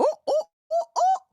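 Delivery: high, loud whooping celebration; whoop, then yell it out overjoyed; excited shout. Real, not acted. Streamer hailing the continent in the building, excited shout.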